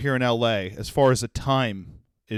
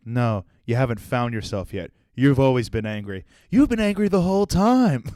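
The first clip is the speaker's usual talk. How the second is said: scolding inner voice. Retold or imitated. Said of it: "And I was like".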